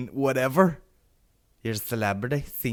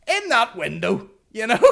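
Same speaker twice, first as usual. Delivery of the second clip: exasperated emphasis; 11 semitones higher, 4 dB louder than usual. Retold or imitated. Mock exasperated reply to aunt.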